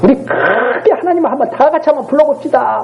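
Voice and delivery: mock-rousing the congregation to pray; imitated prayer leader. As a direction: imitate a leader calling everyone to cry out. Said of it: "가끔 가다가 그런 거 있잖아요".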